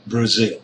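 Brazil with a short, weak "Bra"; "Brazil": stretch and stress the ZIL; stress on second syllable. Shown as a demonstration. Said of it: "it is a stressed syllable".

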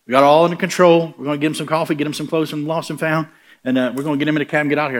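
high, loud, hurried reassurance; a flustered elder smoothing things over; anxious elder. Retold or imitated. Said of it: "the elder said".

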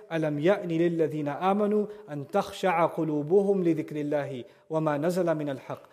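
quick recited Arabic verse, rushed in one breath; rapid Quran recitation. Acted. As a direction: recite the verse fast and fluent.

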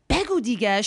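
impatient Persian mom, imitated; mildly hammed-up impatience; mock freaking out. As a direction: urge it on like an exasperated mother. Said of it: "She was freaking out".

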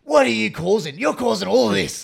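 high, loud telling-off; mock scolding. Passenger berating her bag, high mock shouting. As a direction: shout accusingly at the culprit. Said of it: "turns to the fucking inanimate object".

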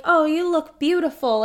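high, gushing mock director; lightly acted, high-pitched praise; imitated director. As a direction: play a director flattering the cast. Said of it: "like, the director".

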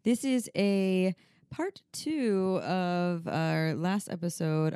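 very slow, drawn-out welcome; femme fatale. Acted. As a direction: linger on every word.

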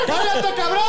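high-pitched yell through laughter; shouting. Real, not acted. Podcaster tells the noisy driller to shut up, shouting. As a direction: yell at someone drilling next door.

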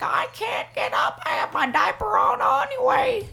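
put-on a squeaky old-timer who will not leave the slot machine; old gambler. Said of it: "They were like".

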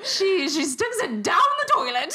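loud laughing punchline. Real, not acted. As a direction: laugh through the line.

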